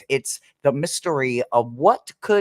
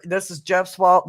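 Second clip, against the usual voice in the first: mock blame; 4 semitones higher than usual. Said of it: "I am full of piss and vinegar".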